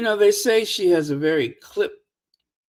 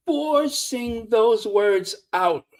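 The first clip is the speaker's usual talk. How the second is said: slow, squeezed-out mimicry; mock forced words; slower than usual. Mock thanks to Kate, words forced out. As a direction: drag out "forcing" as if straining. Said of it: "she has to squeeze those words out".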